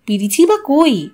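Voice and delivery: usual speaking voice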